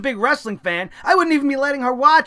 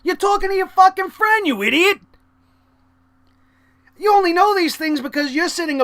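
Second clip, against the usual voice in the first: exasperated rant; 5 semitones higher, 3 dB louder than usual. Real, not acted. Scolding phone-using fans.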